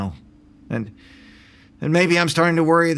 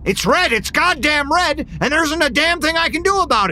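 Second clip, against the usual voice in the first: angry shout; 8 semitones higher than usual. Acted. Shouting at red light.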